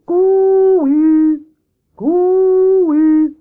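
long, high, ringing coo-ee; calling out. Acted. Hare calls from the door for Grey Rabbit, calling out. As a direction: send the call far across the woods. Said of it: "he called again".

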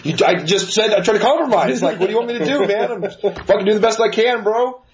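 fed-up protest, voice climbing; exasperated. Retold or imitated. Worker retelling his reply to the snarky boss, exasperated.

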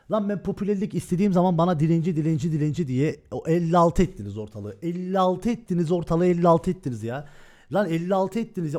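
loud, heated rant at the viewers, building to repeated yells; angry rant. Real, not acted. Streamer yelling at viewers who called him a beggar, loud and angry. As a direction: throw it back at them, furious and loud.

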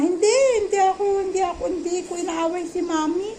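high, fast protesting husband. Retold or imitated. Husband denies fighting with mommy to their son, flustered and fast. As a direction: rush the denial like a flustered husband. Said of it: "Sabi naman ng ama".

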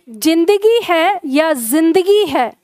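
"जिंदगी" said slowly twice, first with the Urdu z sound, then with a Hindi j; two ways to say a word. Shown as a demonstration. Teacher quizzing students on the Urdu sound, slow contrasting demo. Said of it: "पहला या दूसरा?".

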